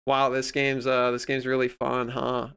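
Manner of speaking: imitating fake enthusiasm, understated; passive aggressive. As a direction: feign enjoyment with a tailing-off jab. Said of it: "be super passive aggressive and shitty".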